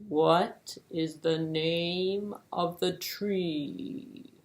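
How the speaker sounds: slow, plodding tortoise voice. Acted. Slow tortoise offering to try, slow and steady. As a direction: drag the words out like a tortoise.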